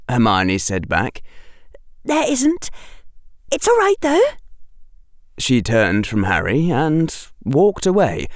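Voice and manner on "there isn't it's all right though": lightly voiced girl, letting him off; gentle girl voice. A narrator's reading. Hermione reassures Harry.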